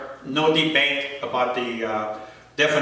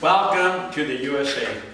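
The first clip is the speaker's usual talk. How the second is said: understated welcome. Acted. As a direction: drop the pitch and say it plainly. Poem line repeated, dropped down.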